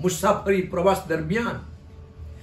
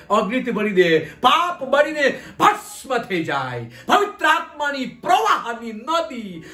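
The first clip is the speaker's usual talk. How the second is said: fervent prayer. Real, not acted. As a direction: build the repeated petitions to full force. Prays for filling with the Spirit.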